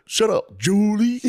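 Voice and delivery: high squealing laugh through the words; cracking up while yelling at her; laughing mock yell. To Julie, a yell breaking into laughter.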